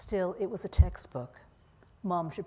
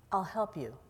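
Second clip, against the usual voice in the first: thoughtful, deliberate. A narrator's reading. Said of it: "thoughtfully and deliberately".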